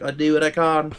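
laughing, put-on British accent. Quoting Bond after a massacre, British accent. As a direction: toss it off in a mock British accent. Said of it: "that's how you do a British accent".

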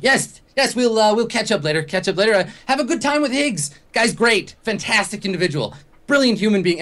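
boisterous Vince. Acted. Tipsy Vince waving off his friend, high jovial voice. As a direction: wave them off cheerfully, already three drinks in.

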